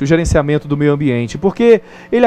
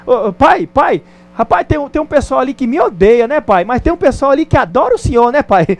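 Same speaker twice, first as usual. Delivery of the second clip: put-on child tugging father; 7 semitones higher than usual. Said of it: "puxa a calça do pai e fala assim".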